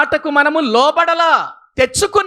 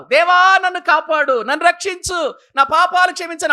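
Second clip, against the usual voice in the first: a mild, higher-pitched plea for rescue; desperate cry to God; 5 semitones higher than usual. Acted. Sinner crying to God for rescue, in a lightly acted, higher-pitched plea. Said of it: "అప్పుడు నువ్వు కేకేస్తావు".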